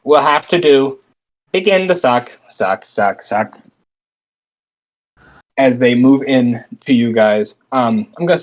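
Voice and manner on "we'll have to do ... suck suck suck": bug voice. Acted. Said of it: "Kind of a bug voice".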